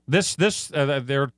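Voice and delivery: talking through hiccups; hiccuping between words. Real, not acted. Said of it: "excuse me, I have the hiccups".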